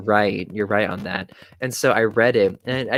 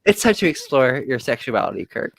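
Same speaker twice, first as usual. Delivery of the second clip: laughing while joking; 3 semitones higher than usual. Real, not acted.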